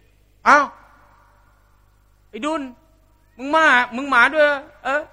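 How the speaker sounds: สำเนียงเหน่อแบบเพชรบุรี; Central Thai twang. Retold or imitated. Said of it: "มันก็จะมีเหน่อๆ ไปเพชรบุรี".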